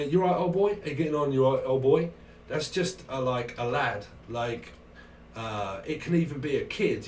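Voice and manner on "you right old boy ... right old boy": loud, higher, matey hail; British lad greeting. Acted. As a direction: greet an old boy like one of the lads. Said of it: "if you call someone a".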